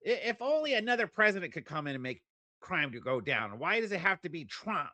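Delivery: high-pitched exasperated whining; mock lament. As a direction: plead in hammed-up despair. Mock lament in opponent's stance.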